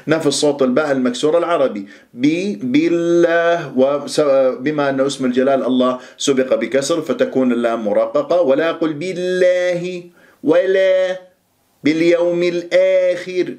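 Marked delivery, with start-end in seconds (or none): 2.1-3.7 بي بالله with the ba like English bee, slow; kasra like English bee. Shown as a demonstration. Teacher comparing the ba to English bee, slowly. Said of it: "حرف البي الإنجليزي". 8.4-13.5 بالله with the alif leaning toward e, raised; wrong tilted alif. Shown as a demonstration. Teacher mimicking the wrong imala, higher. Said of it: "إمالات للألف خطأ".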